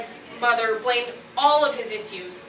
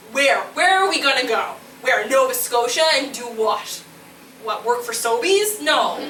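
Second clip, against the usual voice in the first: doubting inner voice; 5 dB louder than usual. Retold or imitated. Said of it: "the other little voice was like".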